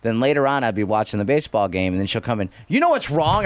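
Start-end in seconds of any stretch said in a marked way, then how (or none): 2.7-3.4 mock girlfriend voice. Girlfriend voiced, louder higher.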